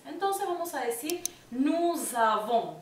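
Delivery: "nous avons" linked with a z sound; liaison z. Shown as a demonstration. Teacher showing liaison: nuz avons, linked. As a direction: join "nous" to "avons" with a buzzing z. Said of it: "como una Z".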